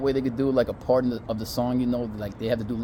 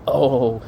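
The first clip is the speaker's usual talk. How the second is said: imitated climactic moan; put-on groan of release; big moan; 4 dB louder than usual. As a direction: let out a mock moan. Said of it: "that big moan you let out".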